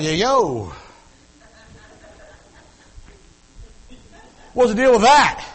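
high, loud mock street greeting; cool young guy. Preacher mimicking his teenage self greeting the girl. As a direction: toss it off like a cocky teen. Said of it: "I'm going like".

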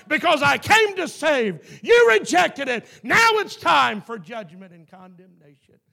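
loud, rising sermon warning; preacher warning the congregation of judgment, loud; fervent preaching. Acted. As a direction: drive the judgment home to the church.

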